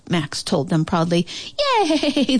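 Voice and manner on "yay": high, drawn-out yay; cheering. A narrator's reading. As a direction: cheer for the hero. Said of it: "the animals cheered".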